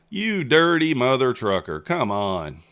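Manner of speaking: drawn-out exasperated jab at the chart; frustrated outburst. Real, not acted. Trader scolding the market over a losing trade, loud frustration.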